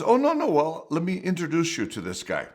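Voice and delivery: quick high mock-eager brush-off; eager reassurance. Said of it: "And he goes".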